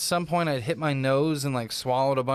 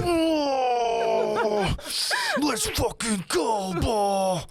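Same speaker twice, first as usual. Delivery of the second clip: excited cheer; 9 semitones higher, much slower than usual. Retold or imitated. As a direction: cheer it like a hype man barely holding back. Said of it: "trying to hold in your excitement".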